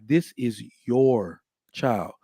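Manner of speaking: slow, hushed offering of a newborn; a hint of a tender mother; tender presenting. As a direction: hand the child over gently. Mother presenting baby to father.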